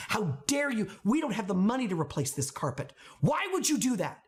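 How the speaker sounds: mock outrage. Mother imagining scolding over ruined carpet, acted outrage. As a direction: scold in exasperated disbelief.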